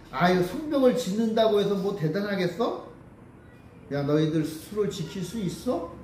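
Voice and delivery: lightly scoffing, questions lifted at the end; mocking. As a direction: imitate a dismissive taunter. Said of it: "이렇게 조롱을 하는 거죠".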